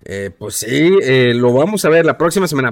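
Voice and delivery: low, halting president impression; mock presidential hemming and hawing; stalling president. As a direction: drag out the fillers like a politician dodging a question. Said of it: "la próxima semana es una frase que".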